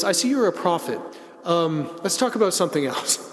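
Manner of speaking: lightly imitated deft change of subject; adroit. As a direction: sidestep neatly, a little lifted, as if dodging. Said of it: "very, uh, adroitly says".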